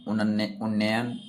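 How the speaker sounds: उन्नयन spelled out slowly, syllable by syllable; उन्नयन drawn out, each syllable separate. Shown as a demonstration. Teacher slowly spells out उन्नयन for students. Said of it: "इसका होता है उन्नयन".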